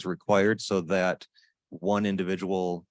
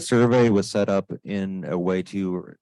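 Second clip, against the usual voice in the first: to someone hard of hearing; 5 dB louder than usual. Real, not acted. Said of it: "A little bit".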